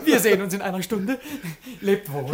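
parting words through a chuckle; laughing farewell. Acted. Servant to master, leaving with a chuckle. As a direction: still amused as he leaves.

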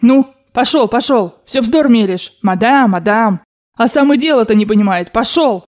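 put-on irritated, emphatic old lady; losing patience. Grandmother dismissing the babbling Frenchman, out of patience. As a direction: send him packing impatiently. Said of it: "Бабушка потеряла, наконец, терпение".

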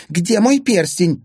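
high, loud, drawn-out demand; angry demand. A narrator's reading. Stepmother demanding her ring from stepson, furious.

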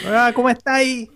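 imitating Andreas. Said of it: "¿Será Andrea?".

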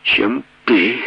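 nasal, choking through blood; bloody mouth. Acted. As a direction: speak through a broken bloody nose. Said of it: "Она гнусавила".

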